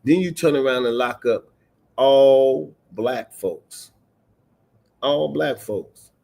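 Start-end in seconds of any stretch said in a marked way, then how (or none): 2.0-3.9 "all" stretched out long and hit hard; drawn-out emphasis. Real, not acted. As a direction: lean heavily on "all", very slow. Stresses the phrase for outrage.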